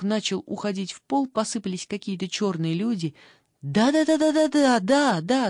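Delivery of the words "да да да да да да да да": much higher and louder, eager rapid yeses; excited shouting. Acted. Liza eagerly agrees with Rita, shouting much higher and louder. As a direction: blurt out agreement, thrilled. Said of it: "закричала Лиза".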